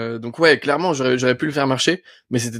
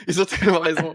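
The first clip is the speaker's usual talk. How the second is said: amused admission through laughter, slightly higher; laughing self-quote; 4 semitones higher than usual. Retold or imitated. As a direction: quote your own reaction while laughing. Rit en se citant lui-même. (en riant, se citant soi-même)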